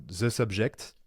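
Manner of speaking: English with a French accent; accent français. Real, not acted. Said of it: "Désolé pour mon accent". (anglais avec l'accent français)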